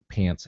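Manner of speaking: "Pants" for Pence, with the vowel of cat; accented vowel. Real, not acted. Speaker catching own slip, accented "Pants". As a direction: say "Pants" with an open a. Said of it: "I keep saying Hunter Pants".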